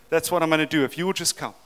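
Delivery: quick, excited preaching pace; speaking fast. Real, not acted. Preacher carried away before his congregation, speaking fast. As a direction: rattle it off in excitement. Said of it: "Am I speaking fast".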